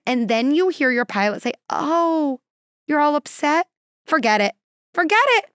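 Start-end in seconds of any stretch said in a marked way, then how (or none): 1.7-3.7 caving pilot. Retold or imitated. Pilot gives in to passengers. 4.0-4.5 caving pilot. Retold or imitated. Pilot gives in to passengers. 4.9-5.5 Forget it. much higher and louder, thrown up in exasperation; exasperated pilot. Retold or imitated. Pilot gives in to passengers.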